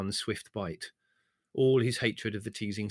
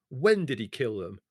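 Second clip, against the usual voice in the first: roar; 3 semitones higher, 5 dB louder than usual. Acted. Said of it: "roared Leslie".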